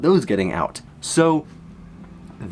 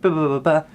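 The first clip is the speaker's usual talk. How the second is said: imitated noise; 4 semitones higher than usual. Imitates someone going along.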